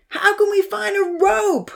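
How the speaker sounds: high, slow calling voice; yelled. A narrator's reading. Odin yelling to the others for a rope, high call. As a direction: shout across the flood for help. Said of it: "Odin yelled".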